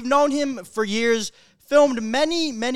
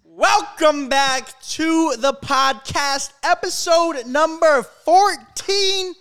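frat bro; 4 semitones higher, slower than usual. Acted. Hyped podcast intro, episode fourteen.

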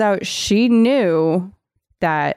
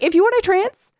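high, playful wheedling; mock coaxing; 11 semitones higher than usual. Host suggests blanket trances to the character, high mock coaxing. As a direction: pitch it high, like a tentative helpful suggestion.

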